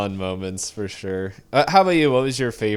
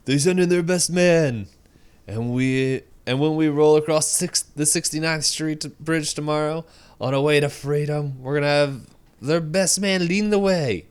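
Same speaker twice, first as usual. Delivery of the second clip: hammy villain speech; 7 semitones higher than usual. Retold or imitated. Quoting the villain boasting about the hero's head, hammed up. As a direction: ham up a movie villain's threat. Reading villain's threat line.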